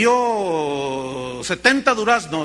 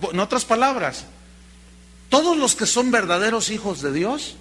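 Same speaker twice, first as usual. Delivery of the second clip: usual speaking voice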